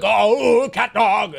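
exaggerated cartoon cat; funny cat voice. Shown as a demonstration. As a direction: put on a silly cat voice, swooping up. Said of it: "cat is like this".

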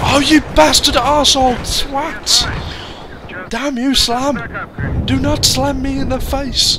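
furious yell at the screen; angry yelling. Real, not acted. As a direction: shout curses in rage. Raging at game opponent.

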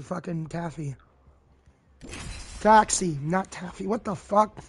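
talking around ice in mouth. Real, not acted. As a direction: speak with ice on the tongue. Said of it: "I have ice in my mouth".

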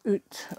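"oot" with a long oo, Canadian-style; Canadian accent. Retold or imitated. Crafter telling how Canadians talk, "oot" in imitated Canadian accent. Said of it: "a Canadian accent".

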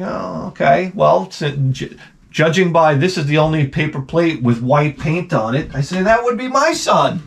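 lightly high, wry discovery; mock realization. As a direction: pretend to work it out, dryly. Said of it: "You're like".

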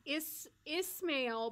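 careful "Ismail" with a long i sound; attempted name. Shown as a demonstration. Telling chat her accent struggles with "Ismail". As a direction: try "Ismail" the way chat taught, slowly. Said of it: "not able to say that with my accent".

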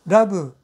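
ラブ with Japanese r and a final u vowel; Japanese pronunciation. Shown as a demonstration. Teacher shows why Japanese hides L versus R, ラブ in katakana sounds. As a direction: say ラブ as two Japanese syllables, ra-bu. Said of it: "日本語で考えていれば".

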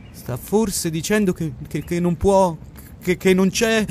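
stumbling over the words in dismay; frightened stammer. A narrator's reading. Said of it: "L'uomo tornò allibito e spaventato".

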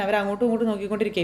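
plain reading voice

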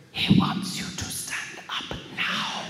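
slow, forceful stage whisper; hissed, unvoiced-sounding instruction; urgent whisper. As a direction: whisper an urgent prompt to your neighbour. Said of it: "Ida whispered".

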